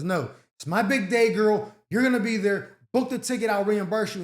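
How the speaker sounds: mock insistent friend; pushy bride friend. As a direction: lightly voice the friend who pushes you to come. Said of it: "And she says".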